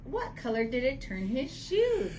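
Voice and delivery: animated picture-book reading; story reading. Acted. Co-host reading Pete's story aloud, animated story reading. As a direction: read it out to children with a questioning lift.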